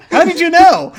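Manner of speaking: high, loud fake astonishment; mock amazement. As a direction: gush with put-on wonder. GM mock surprise at player guess.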